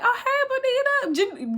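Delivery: high, airy hello dropping on the name; imitated chill greeting. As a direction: imitate her unbothered greeting, amused. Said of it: "Gigi is so chill".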